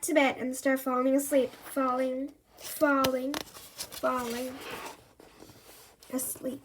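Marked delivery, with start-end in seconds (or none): 1.7-6.6 fading from soft to almost silent; drifting off. A narrator's reading. Andy falling asleep in bed, voice fading away.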